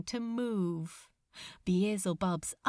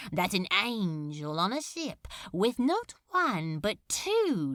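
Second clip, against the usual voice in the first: mock innocence; 3 semitones lower than usual. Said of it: "in mock ingenuousness".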